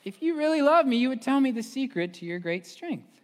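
high, loud, insistent nag; loud nagging. Retold or imitated. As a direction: press him harder.

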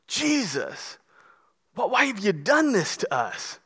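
quiet, wounded question; emotional mother. Retold or imitated. Mary asking her lost son, softly hurt. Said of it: "Mary is so emotional".

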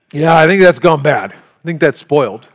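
disgusted verdict. Retold or imitated. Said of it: "You'd be like".

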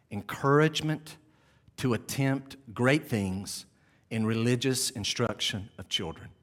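slow, weighty quotation read; solemn reading. Acted. Preacher reads Ryle's words to the church, slow and solemn. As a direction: read each phrase with gravity. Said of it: "Ryle writes the following".

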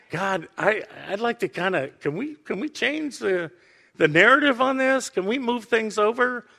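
imitated hesitant, halting plea; wrestling in prayer. Jesus bargaining with God in prayer, hesitant and wrestling. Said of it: "Jesus is wrestling".

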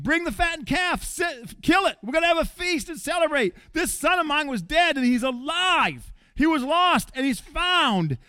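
the father calls for a feast, exuberant; joyful father's call. Retold or imitated. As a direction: throw a party in your voice.

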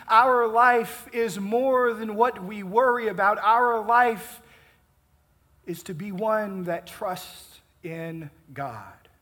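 normal talking voice

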